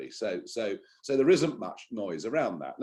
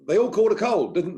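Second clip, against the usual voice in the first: jokey aside; 10 semitones higher, 8 dB louder than usual. Acted. Jokey aside about crashes.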